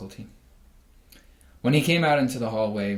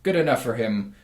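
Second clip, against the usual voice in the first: rooster gloating; 5 semitones higher, 3 dB louder than usual. Acted. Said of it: "crowed the rooster".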